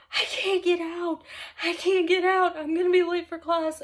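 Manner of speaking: lightly hammed-up fretting; mock panic. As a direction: imitate yourself panicking while stuck. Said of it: "hysterically panicking".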